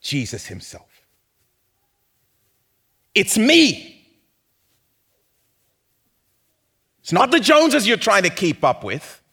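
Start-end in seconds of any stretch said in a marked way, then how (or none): 3.2-9.2 loud, high, driving sermon voice; full-force preaching. Acted. Pastor proclaiming to the congregation, loud and fervent. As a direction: preach it out with rising fire.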